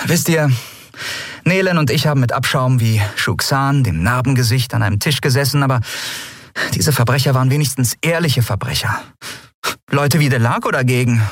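high, scornful captain voice; captain telling her crew, high and scornful; young captain. A narrator's reading. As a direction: scorn the crooked merchant.

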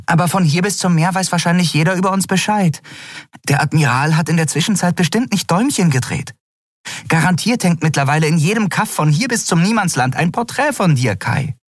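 high, quick and chattering; breathless high little creature's voice; small flying creature voice. A narrator's reading. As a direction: speak fast and high like a tiny winged creature. Nelen's voice in the story.

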